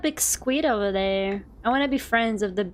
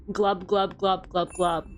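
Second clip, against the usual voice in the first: fish glubbing; 4 semitones lower than usual. Retold or imitated. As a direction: lower quoted glub glub.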